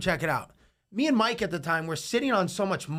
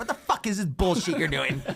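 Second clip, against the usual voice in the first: sharp, cartoonish put-on Jersey accent. Describing how Mike reacted, imitating Mike's Jersey accent. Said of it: "Like the Jersey accent with the".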